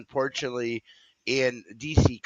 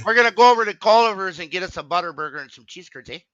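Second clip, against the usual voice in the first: light hammed-up Wisconsin accent, higher and louder; 5 semitones higher, 6 dB louder, faster than usual. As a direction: play the cheesehead with a Wisconsin "eh". Mock Wisconsin cheesehead talk.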